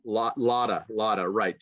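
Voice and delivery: "lotta" with schwa, no v; lotta reduced. Shown as a demonstration. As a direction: say "lotta" as lot-uh. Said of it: "Just the vowel".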